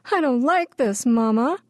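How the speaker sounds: put-on a small girl starting to cry to mama; mild sobbing child. A narrator's reading. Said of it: "Pidge began to sob".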